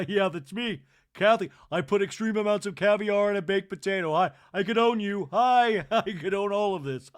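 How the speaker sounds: loud, high, waving to fans; grand Kathy. Retold or imitated. Kathy waving from her cart, loud and high. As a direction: play a queen greeting the street. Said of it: "waving to people on the street".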